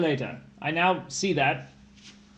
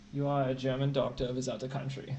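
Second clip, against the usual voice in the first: put-on German accent; 4 semitones lower, 5 dB quieter than usual. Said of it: "My accent".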